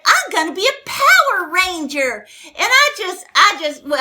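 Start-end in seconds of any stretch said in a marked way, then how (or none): 0.0-2.3 put-on little boy's voice. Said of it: "he said".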